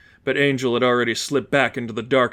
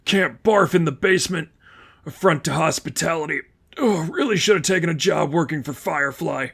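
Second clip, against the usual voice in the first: put-on drunk and queasy; 4 semitones higher than usual. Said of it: "gave heavy breaths".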